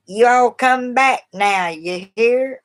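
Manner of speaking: slow, lightly played-up Southern accent; Southern drawl. Shown as a demonstration. A vlogger shows off her Southern accent, slow. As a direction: drawl it out like a friendly Southern host. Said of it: "I got the Southern voice".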